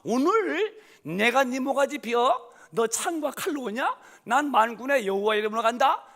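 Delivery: yelling. Retold or imitated. David yells his defiance at Goliath before battle. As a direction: roar it down at the giant. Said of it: "소리를 버럭버럭 지르며".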